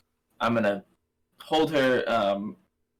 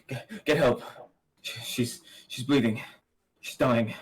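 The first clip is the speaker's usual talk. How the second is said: urgent panic; 3 semitones higher, 4 dB louder than usual. Acted. Ally bleeding out in arms.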